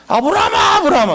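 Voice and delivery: Abraham's name shouted high and urgent, with a laugh; God shouting his name twice to stop Abraham; urgent calling out. Retold or imitated. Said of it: "그러면서 두 번 불렀다".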